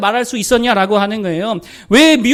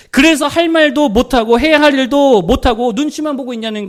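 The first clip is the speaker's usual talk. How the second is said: rebuking preacher; 4 semitones higher, 5 dB louder than usual. Acted. Preacher rebukes a timid church.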